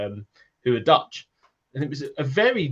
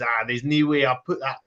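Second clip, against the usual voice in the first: hammed-up attempt at Scottish; terrible Scottish accent; 2 semitones higher than usual. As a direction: have a go at a bad Scots accent. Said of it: "That's my terrible Scottish accent".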